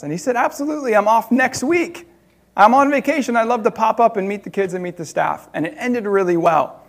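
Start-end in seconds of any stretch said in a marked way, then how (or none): 0.4-5.5 higher-pitched, keen yes; lifted, enthusiastic retold reply; eager acceptance. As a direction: imitate someone gladly accepting an invitation. Judge happily accepts invitation.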